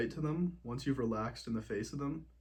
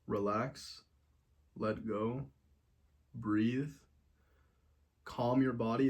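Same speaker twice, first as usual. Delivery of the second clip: calming; slower than usual. Shown as a demonstration. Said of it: "first step is to relax".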